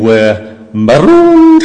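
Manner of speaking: slow, loud Scottish moan; Scottish Private Fraser. Retold or imitated. Private Fraser clip, slow Scottish gloom. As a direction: draw it out in a Scottish accent. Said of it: "one saying".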